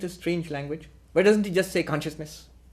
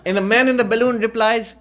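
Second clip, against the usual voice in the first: laughing; 6 semitones higher than usual. Real, not acted. Laughing through the balloon joke.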